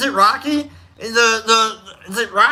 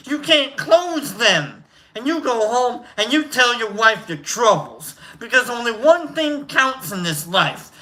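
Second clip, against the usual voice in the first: put-on New York accent; 3 semitones higher than usual. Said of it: "I went a little New Yorkie on that one".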